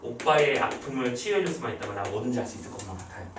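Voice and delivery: lightly voiced devoted sister, low and soft; tender devoted sister. Sister vowing to heal her brother's pain, mildly tender.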